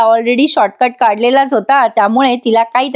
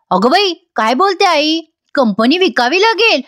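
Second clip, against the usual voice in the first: higher-pitched, taken-aback echo question; startled disbelief; 5 semitones higher than usual. Retold or imitated. Sumitra questions her mother about selling the company, startled disbelief. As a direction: repeat it in mild disbelief, pitch raised. Sumitra reacts to grandmother's warning.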